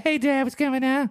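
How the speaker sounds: high, chill dog voice; dog's voice. Pretend. Speaking for his dog Tony, high laid-back dude voice. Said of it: "he'd be like".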